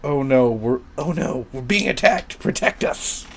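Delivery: strained, airy cry of alarm; victim's cry for help. Acted. Game master as an attacked victim, alarmed. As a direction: plead for protection under attack. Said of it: "you hear a voice say".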